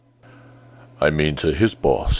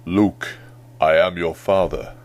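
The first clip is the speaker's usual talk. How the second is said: Darth Vader voice. Retold or imitated. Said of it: "a pretty good Darth Vader impersonation".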